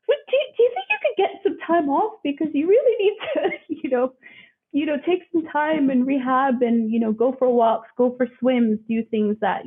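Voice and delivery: high, laughing imitation of an Aussie chiropractor; lightly put-on Australian accent, amused; Aussie chiro advising rest, mock Australian accent. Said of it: "in his Aussie accent".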